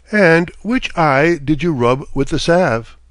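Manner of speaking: sly little man. Acted. Fairy man questions slyly.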